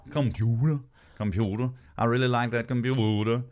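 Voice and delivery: exaggerated Danish vowels on "computer"; Danish accent. Mimicking Danes who give themselves away, Danish accent. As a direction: twist "computer" like a Dane. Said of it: "mental when they said computer".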